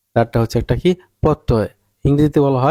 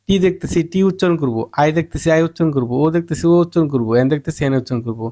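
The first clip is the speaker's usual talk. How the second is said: mock learner's thought; 4 semitones higher than usual. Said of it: "আপনারা ভাবেন কি".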